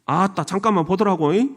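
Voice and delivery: Jeolla accent with a tag question; folksy Jeolla lilt; Jeolla dialect. Shown as a demonstration. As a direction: speak like a Jeolla local. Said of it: "전라도는".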